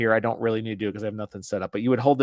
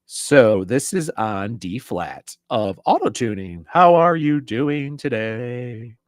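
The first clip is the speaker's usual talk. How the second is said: robotic pitch-corrected voice; electric auto-tune voice; 5 dB louder, much slower than usual. Shown as a demonstration. Reviewer demoing the voice changer, electric autotune. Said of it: "do the electric here so you can hear the difference".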